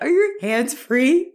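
tiny, high, pleading whimper; little punk. Retold or imitated. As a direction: imitate your panicked self begging, high and drawn out. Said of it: "I sounded like that".

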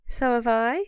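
hoarse with a cold; croaky, sniffly cold voice. Real, not acted. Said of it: "my terrible croaky voice".

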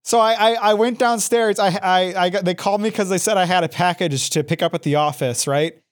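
short of breath after stairs. Real, not acted. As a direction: speak while winded, breath still heavy. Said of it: "Sorry, I, like, ran up the stairs".

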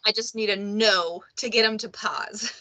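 whispered aside. Real, not acted. Mom whispering to her co-host about her toddler. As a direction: drop to a breathy whisper for the joke.

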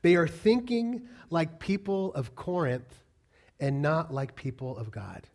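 slow, spaced-out "They are thinking", falling away on "not like people of God"; emphatic restatement. Shown as a demonstration. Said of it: "I wanna say that again".

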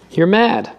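mock the absurd request; incredulous scorn. A narrator's reading. Doctor scoffs at old man.

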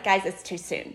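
said through a laugh; laughing protest. Retold or imitated. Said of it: "I was like".

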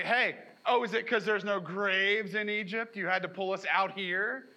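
put-on teenage eye-roll sarcasm; sarcastic. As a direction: roll your eyes at Moses. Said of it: "they actually are being very sarcastic with Moses".

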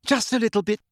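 high-pitched call back; mild shout. A narrator's reading. Hermione calling back to Umbridge, mild shout. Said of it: "shouted Hermione".

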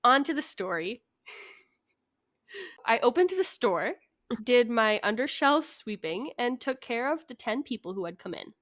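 measured story narration; telling a written tale; story reading. Acted. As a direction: read it aloud with deliberate emphasis. Reads out a prepared story.

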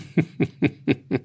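soft, trailing bitter laugh. A narrator's reading. Farmer laughs quietly at life's folly. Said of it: "in grellendes Lachen aus".

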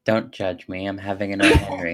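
talking while chewing; words round a bite of candy; mouth full. Real, not acted. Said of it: "Devlin, are you munching?".

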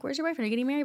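high mock parent; mock parent nag. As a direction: lightly voice a pushy parent. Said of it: "never once were like".

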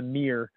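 "mirror" squashed to one syllable, meer; American mirror pronunciation. Acted. Reading a meme mocking Americans, "mirror" said as meer. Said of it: "M E E R".

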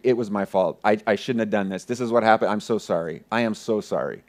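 low, soft, contrite retelling; nervous apology. Retold or imitated. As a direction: repeat the apology quietly, pitched well down. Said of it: "I just keep saying".

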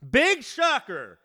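drawn-out, loud, mocking exclamation; sarcastic. Real, not acted. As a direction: drip it with sarcasm, slowly. Sarcastic reaction to store closings.

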